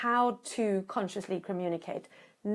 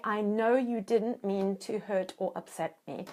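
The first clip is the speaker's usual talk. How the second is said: gentle reassurance. Shown as a demonstration. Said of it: "So immediately say".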